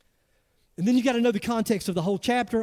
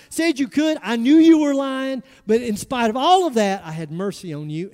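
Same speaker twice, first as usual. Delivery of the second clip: a mildly raised, indignant master; 2 semitones higher, 5 dB louder than usual. Acted. Master confronts the servant, indignant and louder. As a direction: scold the ungrateful servant, building. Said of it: "Can you imagine being that master?".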